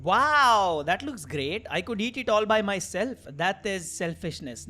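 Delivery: slow, measured English dialogue reading; game dialogue read-out. Acted. Player voicing pizza delivery chat, slow read-out. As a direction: read each line out deliberately, drawing out phrase ends.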